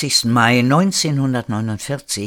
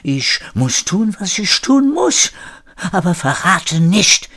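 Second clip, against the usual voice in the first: defiant protest; 8 semitones higher, 4 dB louder than usual. A narrator's reading. Frenchman answering the charge of traitor, defiant protest. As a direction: push back in rising self-defence. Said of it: "wehrte sich der Franzose".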